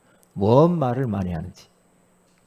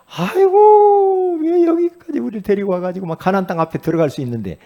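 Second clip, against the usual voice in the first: complaining wail; 8 semitones higher, 8 dB louder than usual. Retold or imitated. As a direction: whine like the grumbling Israelites. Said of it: "그러면서 막 원망, 불평, 짜증 내고". (높고 길게 늘어지는 원망 섞인 하소연)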